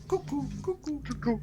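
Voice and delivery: high, sing-out cuckoo call; cuckoo mad. Acted. Game master showing a player how mad he looks, high cuckoo call. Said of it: "he looks pretty mad, as in".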